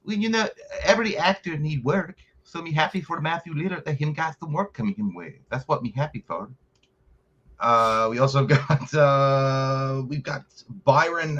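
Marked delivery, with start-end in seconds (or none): 0.1-6.5 lightly voiced broken-English monster; playful Slenderman impression, a little higher; mock Slenderman voice. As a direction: answer as Slenderman in a put-on creature voice. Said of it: "How does Slenderman feel about Stu's return?".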